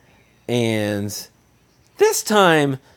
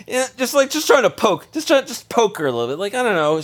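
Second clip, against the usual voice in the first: teasing; 11 semitones higher than usual. Real, not acted. Admits teasing his wife.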